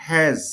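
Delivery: হ্যাজ with an "ae" vowel, "haez"; A as short "ae". Shown as a demonstration. Teacher giving an example of A, হ্যাজ said "haez". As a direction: sound the A in হ্যাজ as "ae". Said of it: "স্বরে জফলা অথবা এ জফলা".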